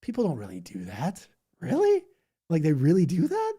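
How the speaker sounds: shocked and baffled; incredulous disbelief. Retold or imitated. Retelling disbelief at church tongues, voice leaping up. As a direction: voice jumping up on really. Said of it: "I'm like".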